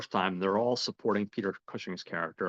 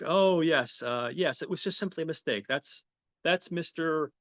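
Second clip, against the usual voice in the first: flustered; 7 semitones higher than usual. Retold or imitated. Bank manager explains the mistake to inspector, flustered. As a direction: imitate a manager caught out, stalling.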